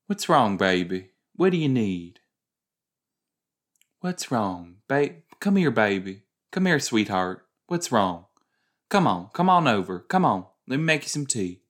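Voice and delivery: put-on lightly Southern, a doting older woman; Southern accent. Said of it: "someone with, like, a Southern accent is like".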